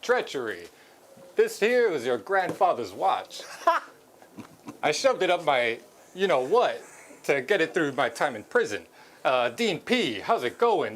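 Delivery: Christopher Walken impression. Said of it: "you're Christopher Walken".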